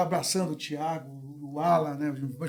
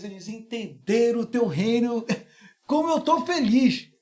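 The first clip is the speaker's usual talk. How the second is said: laughing prayer; 4 semitones higher, slower than usual. Retold or imitated. Pastor's joyful prayer retold.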